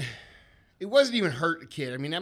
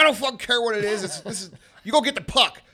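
loud, raised voice of an unbudging father; insistent dad; 6 semitones higher, 5 dB louder than usual. Retold or imitated. Dad brushing off his kids' soccer objection, insistent pep talk. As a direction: imitate dad overruling the kids. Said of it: "he would give us this pep talk".

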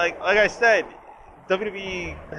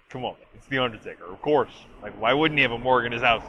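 mock dry; 2 semitones lower, faster than usual. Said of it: "that delivery is very, very dry".

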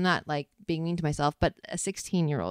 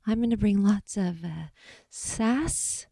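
put-on English accent, pitched up; affected English accent, higher than usual; 4 semitones higher, slower than usual. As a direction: imitate an English-accented audition answer, rising high on the last word. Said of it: "I had an English accent".

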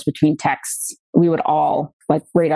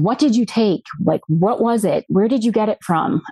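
retold frustrated questioning, pitched higher; harsh, frustrated; 4 semitones higher than usual. Questioning him about the pills he took, retold harsh frustration. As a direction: press for answers, mildly exasperated. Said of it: "so harsh just because I was so frustrated".

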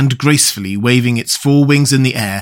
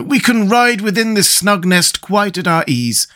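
high-pitched, pleased Scarecrow; excited exclamation; 7 semitones higher than usual. A narrator's reading. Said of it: "cried the Scarecrow".

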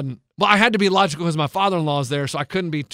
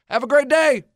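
sarcastic; 7 semitones higher than usual. Retold or imitated. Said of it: "I was like".

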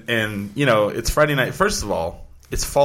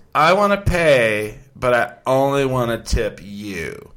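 put-on drunk girl voice; much slower than usual. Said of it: "she goes".

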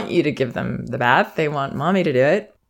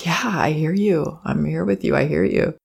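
put-on hushed whisper to a crying child; soothing a toddler in a whisper; soft whisper. Shown as a demonstration. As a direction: whisper reassurance close by. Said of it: "The focus is really".

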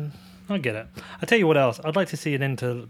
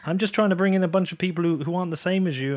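pitched-up, louder exasperated plea to the trolls; mock-pleading reply to online trolls; exasperated protest; 5 semitones higher, 3 dB louder than usual. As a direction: insist you're on their side, half pleading. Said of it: "I'm like".

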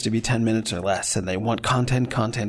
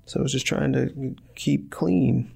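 innocent excuse; 4 semitones higher, slower than usual. Retold or imitated. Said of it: "And I'll be like".

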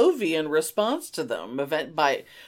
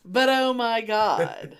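laughing; 3 semitones higher, slower than usual. Real, not acted. Repeating while laughing.

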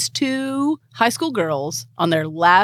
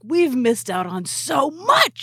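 acted girls; 4 semitones higher than usual. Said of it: "And they're like".

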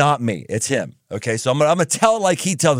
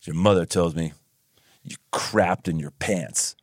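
stern dad voice; 9 semitones lower than usual. Retold or imitated. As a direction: lay down the law like dad. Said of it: "he comes up and he says".

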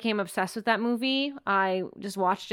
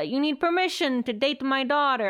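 put-on Greek accent; 3 semitones higher than usual. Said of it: "I'm not gonna do the Greek accent".

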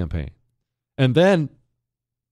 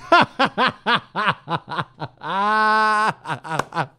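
high laugh; 7 semitones higher than usual. Real, not acted. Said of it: "That is so frigging funny".

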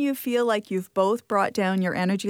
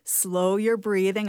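calm mantra; slower than usual. Shown as a demonstration. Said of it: "have a little mantra you play in your head".

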